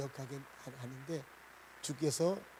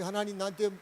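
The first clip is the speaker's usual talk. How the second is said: higher-pitched, questioning plea to God; protesting prayer; 3 semitones higher than usual. Acted. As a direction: act out a bewildered complaint in prayer. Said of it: "막 기도하다 보니까".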